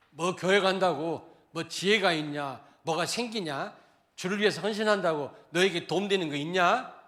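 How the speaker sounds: scoffing unbeliever. Acted. Voicing unbelievers scoffing at believers.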